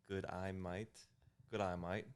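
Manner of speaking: "Good eye might" as a careful Australian greeting; Australian accent. Shown as a demonstration. Guest practising the greeting, attempted Australian accent. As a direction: feel out the Australian vowels. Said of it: "is that Aus".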